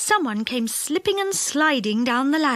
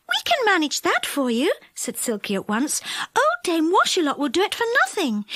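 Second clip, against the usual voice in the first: Silky; 7 semitones higher than usual. A narrator's reading.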